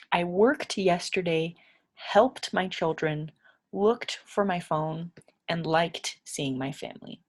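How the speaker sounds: "worked", "helped", "looked", "liked" each ending on a clear t; t ending drill. Shown as a demonstration. Teacher to learners, drilling t endings. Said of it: "these ones right here are T".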